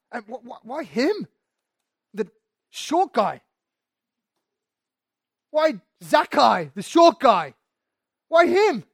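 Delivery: building from a whine to a loud, high indignant outburst; indignant grumbler. Retold or imitated. Jealous crowd member protesting about Zacchaeus, hammed-up loud indignation. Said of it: "They grumbled".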